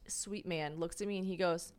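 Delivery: normal talking voice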